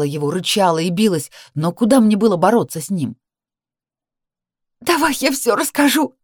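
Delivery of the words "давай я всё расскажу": high, strained voice breaking with sobs; choking sobs. Acted. Girl sobbing at Danil, high and choked. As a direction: force it out through tears. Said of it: "захлёбываясь рыданиями, просипела я".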